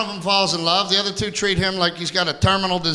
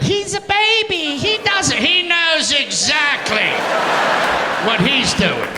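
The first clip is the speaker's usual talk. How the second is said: much higher, slow, sing-song mock wife; wife defending the baby, caricatured high and slow; defensive wife; 11 semitones higher, much slower than usual. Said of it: "she'll try to defend it".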